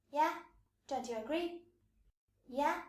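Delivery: "Yeah" rising like a tag question; seeking affirmation. Acted. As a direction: lift "Yeah" to invite agreement. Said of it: "want to get affirmation".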